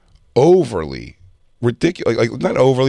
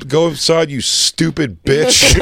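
higher, drawn-out final insult; mocking dismissal; 5 semitones higher, slower than usual. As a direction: send the officer off with a stretched-out jab. Mocking dismissal of cop, retold.

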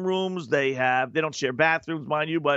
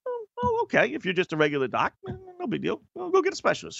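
mock-impressed, pitched much higher; sarcastic; 11 semitones higher, faster than usual. Patient mocking the doctor who calls a specialist, in high mock awe. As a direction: play it up in fake awe of the doctor.

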